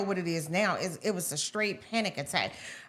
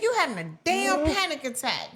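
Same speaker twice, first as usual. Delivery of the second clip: imitating mom, higher-pitched; mom's voice; 7 semitones higher, 3 dB louder than usual. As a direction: retell a mother's blunt diagnosis in her voice. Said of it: "She said".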